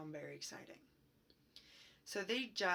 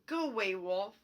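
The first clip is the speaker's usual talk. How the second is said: yelled back; 7 dB louder than usual. Retold or imitated. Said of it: "He yelled back".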